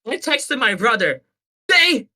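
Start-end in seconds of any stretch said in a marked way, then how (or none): 1.7-2.1 high, loud, slow announcement; hammed-up victorious shout; triumphant declaration. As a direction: proclaim your vindication to a doubter. Retold triumphant text to brother.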